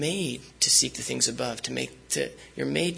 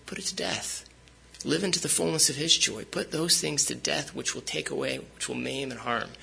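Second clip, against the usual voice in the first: out of breath. Real, not acted. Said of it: "Sorry, I ran out of breath".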